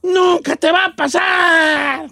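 mock sobbing shout. Host tells coworker it will never happen, mock sobbing shout. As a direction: cry it out slowly like a heartbroken uncle. Mock lecture at full force.

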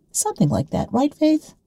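loud, high call across the train carriage; public address voice. Acted. Susan calling across the train to her friend Faith, loud and high. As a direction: broadcast it like a PA announcement. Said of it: "style of her public address system".

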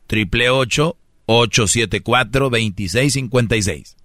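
measured, slightly drawn-out number groups; slow recap. Shown as a demonstration. Host recapping the number for critics, slowly. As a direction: repeat the number slowly and clearly. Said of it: "voy a dar el número despacito".

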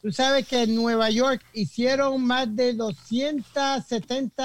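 distant, off-mic voice; far from mic. Real, not acted. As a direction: speak away from the microphone. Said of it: "Pégate al micrófono". (lejos del micrófono)

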